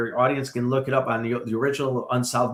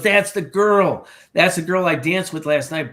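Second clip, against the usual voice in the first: retold shock of spotting her picture; startled recognition; 4 semitones higher, 5 dB louder than usual. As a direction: blurt it as the photo hits you. Recognizes the dead girl's photo.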